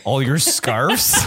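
"scarves" stretched slowly with a rising tune; drawn-out scarves. Acted. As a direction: draw out "scarves" long and rising. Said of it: "I love the way you say scarves".

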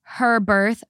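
"her birth" with weight on "her"; stress on her. A narrator's reading. Narrator reports wife insisting it was her birth, stress on "her". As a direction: lean firmly on the word "her". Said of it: "She emphasized that it was".

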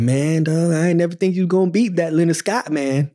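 lightly voiced dad; dad's way of talking. Dad admitting his doubts to his son, lightly imitated. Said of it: "this is how my dad talked".

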